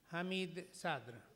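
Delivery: slow, loud announcement of the name; announcing a speaker. Real, not acted. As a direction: present the speaker to the hall. Chair announces the next speaker.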